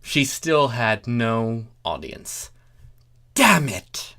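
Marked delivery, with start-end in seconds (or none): 3.3-4.2 hissed curse under the breath; whispered swear. Acted. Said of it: "she swore".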